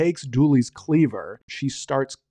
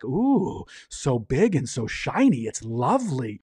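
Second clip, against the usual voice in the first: enraptured; slower than usual. Retold or imitated. Orphanage keeper admires his meat cleaver, mildly enraptured. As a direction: coo slowly over it, lightly acted. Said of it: "looks at it with incredible intent".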